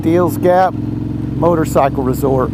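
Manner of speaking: drawn-out grand announcement, slow; slow announcer voice. Shown as a demonstration. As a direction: announce it like a big landmark. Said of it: "World famous".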